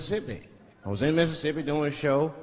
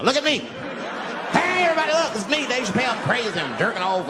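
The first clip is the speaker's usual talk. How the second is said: shouting from the window; 8 semitones higher than usual. Pretend. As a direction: yell it to the whole street, pitched way up. Imagined self shouting from window.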